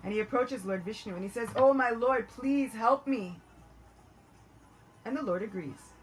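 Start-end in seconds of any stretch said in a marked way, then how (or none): 1.5-3.4 louder, higher cry for help, drawn out at the end; desperate plea. Acted. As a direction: plead urgently to your Lord. Shiva begging Vishnu for help.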